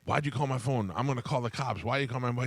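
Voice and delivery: put-on half-yell it like an irate old man; mock yelling. Angry man phoning the wife, mock yell. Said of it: "yelling at her and being like".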